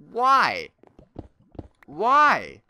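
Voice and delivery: loud, high, drawn-out exasperated why; exasperated yell. Real, not acted. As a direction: cry out in frustration. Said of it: "sometimes I just get so angry".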